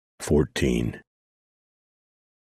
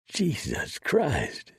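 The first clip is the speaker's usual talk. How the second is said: high, slow drawn-out cry; yelled; 13 semitones higher, much slower than usual. Acted. Son cries out as he lies wounded, high drawn yell. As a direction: stretch it out high and pained. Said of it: "Son yelled".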